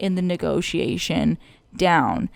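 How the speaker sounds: measured radio host, close to the mic. Shown as a demonstration. Podcaster explaining negotiation voices to co-host, light radio DJ voice. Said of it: "I am enjoying this tone of voice".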